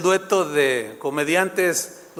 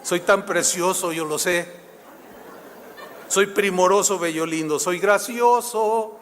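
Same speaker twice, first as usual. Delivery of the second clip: mock vain comic. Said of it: "me acordé de Gordolfo Gelatino".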